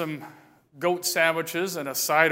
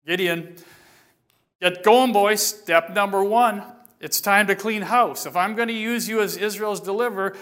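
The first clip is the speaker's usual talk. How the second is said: commanding God. Acted. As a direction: give orders like a stern commander. God's voice gives orders.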